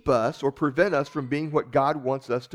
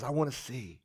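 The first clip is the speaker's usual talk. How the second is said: soft, longing plea; quiet plea; 2 semitones lower, 9 dB quieter than usual. Retold or imitated. Bartimaeus answering Jesus, soft plea. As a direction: ask softly. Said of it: "he says".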